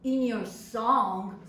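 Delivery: slow, questioning disbelief; slow incredulous echo. Acted. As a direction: drag it out, doubting every word. Daughter echoes the letter in disbelief.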